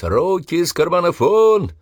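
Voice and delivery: high, loud, slow drill-sergeant roar; threatening bellow. Acted. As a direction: bark it at the recruits as a threat. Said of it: "прорал, грозясь".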